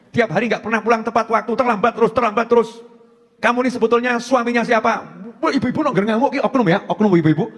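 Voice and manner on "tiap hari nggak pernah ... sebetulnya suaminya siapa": mock nagging complaint, slightly raised; imitated angry wife. Ibu marah sama suami pulang terlambat, mildly angry. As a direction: act out a wife having a go at her husband. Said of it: "Kalau marah itu kalimat-kalimatnya".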